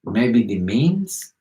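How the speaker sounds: very slow, drawn-out sly question; mock-seductive slow drawl; put-on pickup voice. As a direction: stretch each word out suggestively. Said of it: "you use that exact voice and talk".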